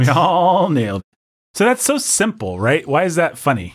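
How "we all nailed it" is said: slow, higher mock boast; sarcastic. Shown as a demonstration. Host echoing co-host's fake praise, exaggerated sarcasm. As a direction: stretch ALL way out, mocking. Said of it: "What's, like, a sarcastic statement".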